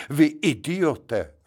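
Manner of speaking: mild mock yell, slow. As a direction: bawl at the driver, hammed lightly. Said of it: "řval".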